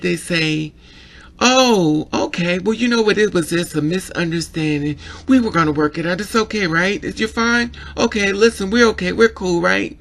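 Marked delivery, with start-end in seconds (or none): 1.4-10.0 higher, louder fake-friendly smoothing over; placating mock voice. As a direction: sell the 'we're cool' a bit too hard. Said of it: "when a white person get mad".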